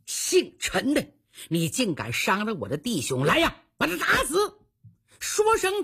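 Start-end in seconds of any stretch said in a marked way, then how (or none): 0.0-4.6 storyteller's enraged boss; acted fury. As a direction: rage at the enemy, then call for the kill. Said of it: "当时火冒三丈".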